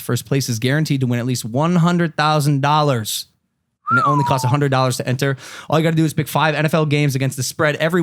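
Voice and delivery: steady, punchy sponsor pitch; podcast ad read. Acted. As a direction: sell it like a sports betting ad. Reads a sponsor ad.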